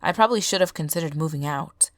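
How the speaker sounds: lightly voiced tired drifter; weary stranger voice. Stranger continues story.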